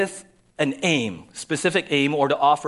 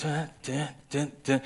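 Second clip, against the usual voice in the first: dramatic dun dun; 5 dB quieter than usual. Shown as a demonstration. Preacher mimics a suspense sting for his congregation, playful. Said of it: "one word gets".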